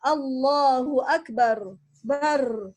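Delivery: "Akbar" ending in a rolled, vibrating r, slow; slow recitation rolling the r; trilled final R. Shown as a demonstration. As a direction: let the r of "Bar" buzz. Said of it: "Terasa R bergetar".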